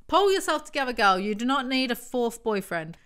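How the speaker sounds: scolding self-talk. Acted. Scolding herself while reading.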